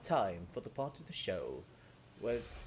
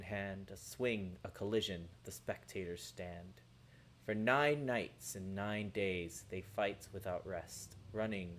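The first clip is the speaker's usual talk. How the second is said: proud clunky rhyming verse; silly poem recital. Acted. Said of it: "recites a silly poem".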